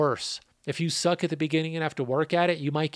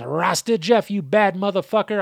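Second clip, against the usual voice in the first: Joey voice attempt; 5 semitones higher, 5 dB louder than usual. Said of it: "I tried to do my best Joey voice".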